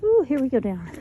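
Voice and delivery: winded, puffing between words; out of breath on the way down; heavy breathing. Real, not acted. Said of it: "Sorry for the heavy breathing".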